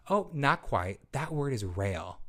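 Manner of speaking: gentle, slow correction; supportive correction. Shown as a demonstration. Teacher gently correcting a child who misread rail, kind. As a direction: correct kindly, no scolding. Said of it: "correct their errors in a supportive way".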